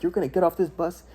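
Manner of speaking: imitating a screaming drill instructor; drill sergeant screaming. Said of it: "they just start screaming".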